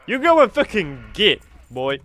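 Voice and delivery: a hammed-up American twang; terrible fake American accent; bad American accent. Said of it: "worst American accent I've ever done".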